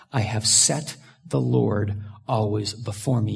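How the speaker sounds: measured, reverent verse reading; scripture reading. Acted. Preacher reading the psalm to congregation, reverent. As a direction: read it as sacred text.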